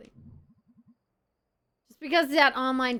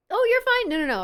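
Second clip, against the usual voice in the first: high reassurance; 10 dB louder, faster than usual. Acted. Reassuring chat, high and loud.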